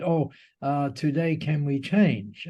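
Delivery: put-on light Japanese accent, drawn out slowly. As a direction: quote her slowly with a hint of a Japanese accent. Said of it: "in this lovely Japanese accent".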